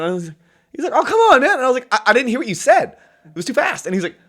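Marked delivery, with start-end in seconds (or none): 0.9-1.5 imitated high-pitched, exasperated shout; loud, high quote of a pleading bandmate; retold loud protest. Retells singer's protest. 1.9-3.8 imitated protest, high and loud; raised-voice mock defence, easing toward the end; retold excuse. Retells own protest to singer.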